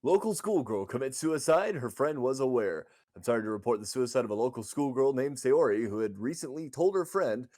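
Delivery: news read. Acted. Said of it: "since I actually read these for a living".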